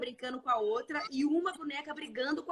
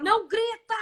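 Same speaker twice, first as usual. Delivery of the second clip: mock yell; 8 semitones higher, 5 dB louder than usual. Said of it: "se eu tô berrando com ela".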